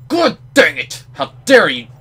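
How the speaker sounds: loud, high-pitched indignant shout; outraged yell. Real, not acted. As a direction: scream at the door in mock fury. Yelling at the game door.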